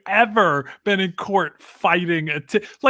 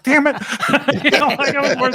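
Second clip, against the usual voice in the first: mock frustration; 7 semitones higher than usual. Guest caught by the judge, mock frustrated. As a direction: caught out, curse lightly. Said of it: "And I'm like".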